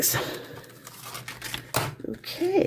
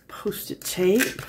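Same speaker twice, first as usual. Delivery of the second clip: whispering; 6 dB quieter, slower than usual. Real, not acted. Crafter muttering to herself.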